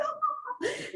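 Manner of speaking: high mock cackling; high, soft retold laugh; imitated teacher's laugh. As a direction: mimic a teacher who can't stop laughing. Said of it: "he would just keep laughing at me".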